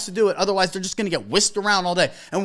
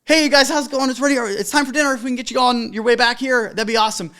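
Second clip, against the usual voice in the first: redone upbeat host; 3 semitones higher than usual. Retold or imitated. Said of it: "I'm all worked up now".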